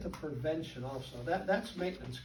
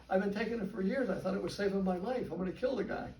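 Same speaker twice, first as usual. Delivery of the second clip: retold anger; 4 semitones higher, 4 dB louder than usual. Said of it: "He said".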